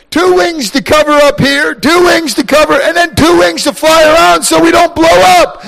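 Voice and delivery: awed creatures. Acted. Creatures praise God.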